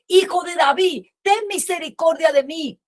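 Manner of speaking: half-hearted call for mercy; mild crying out. Acted. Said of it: "él empezó a gritar".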